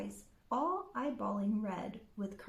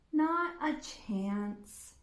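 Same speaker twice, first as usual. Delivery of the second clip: slow, careless drawl; much slower than usual. Acted. Red dismissing the wolf, slowly and carelessly. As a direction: brush it off like you barely care. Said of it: "like she barely could care".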